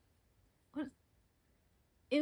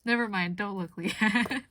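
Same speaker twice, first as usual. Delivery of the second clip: louder, slow playful warning; teasing warning; 5 dB louder than usual. Retold or imitated. Friend warning Leanne off the card, teasing and slow. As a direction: drag out the tease, don't look. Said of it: "And they're like".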